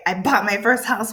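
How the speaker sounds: excited emphasis on the news. Shown as a demonstration. Teacher showing what the exclamation mark adds, excited. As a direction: say it as an exclamation, with a lift. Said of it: "it shows I am so excited".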